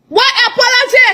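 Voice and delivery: What apology? thrown up high in disbelief; outraged rhetorical question; incredulous. Real, not acted. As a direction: raise the pitch on apology, scoffing. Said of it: "repeated scornful question".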